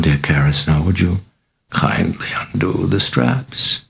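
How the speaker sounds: a mocking, sinister possessed girl, purring; a lightly voiced demon, amused and taunting; sly demon voice. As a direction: toy with the priest, silky and sly.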